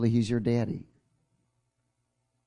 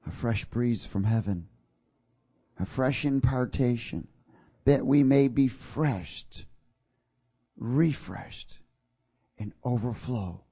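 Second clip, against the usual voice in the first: hushed prayer before the sermon; 2 semitones lower, slower than usual. Acted. Opening prayer.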